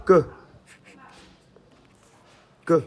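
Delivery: "Q" said alone and clearly; name the Arabic letter; teacher naming a letter. Shown as a demonstration. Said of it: "C'est la lettre".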